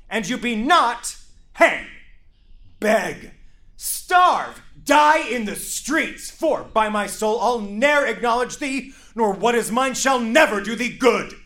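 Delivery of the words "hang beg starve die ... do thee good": louder, higher, hammering threats; furious threat. Acted. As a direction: threaten her to the end. Father's final threat to daughter.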